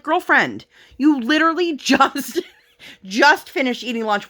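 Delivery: high, laughing mock scolding; laughing disbelief. Mother retelling how she answered her daughter, laughing. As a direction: tease her through laughter.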